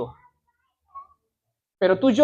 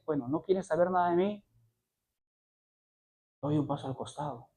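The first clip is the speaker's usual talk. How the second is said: God speaking; 4 semitones lower, 10 dB quieter than usual. Acted.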